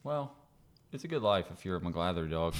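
chewing a Rolo mid-sentence; mouth full. Real, not acted. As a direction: talk through a mouthful of candy. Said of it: "Sorry, I'm eating a Rolo right now".

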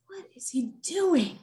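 hushed, puzzled whisper in the dark. Retold or imitated. Wife whispering at the cat in bed, hushed. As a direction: breathe the words so nobody wakes.

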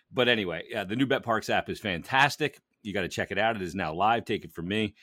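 upbeat sponsor read; hyped betting ad. Acted. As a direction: sell the app with energy. Host reads sponsor ad.

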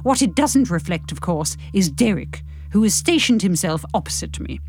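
audiobook reading in the narrator's own voice; measured storytelling to a listener; story narration. A narrator's reading. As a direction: read it out as first-person story narration. Reads the audiobook chapter aloud.

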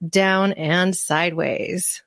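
down and sideways drawn out slowly, half whispered; slow playful whisper. Shown as a demonstration. Host teasing the guest's phrase in a slow hushed whisper. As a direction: savor each word, hushed and slow.

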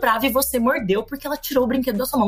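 calm teacher. Retold or imitated. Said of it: "E ela falou".

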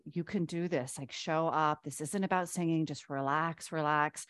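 soft, gentle encouragement; quiet inner voice of reassurance. Retold or imitated. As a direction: coax yourself softly to relax. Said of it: "my higher self just being like".

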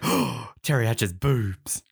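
slow breathless whisper; awed whisper. Retold or imitated. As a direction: whisper it in awe. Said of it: "anyone on set's like".

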